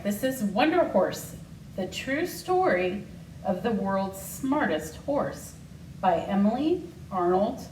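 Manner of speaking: put-on reading a picture book to children; story reading. School secretary reading Wonder Horse to the class, storytelling voice. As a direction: read it warmly and clearly to young listeners.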